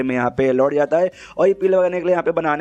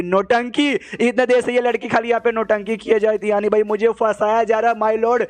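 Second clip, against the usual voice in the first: higher exasperated complaint; 6 semitones higher than usual. Acted. Tricked man protests to the court, higher and exasperated. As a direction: pitch up in comic outrage.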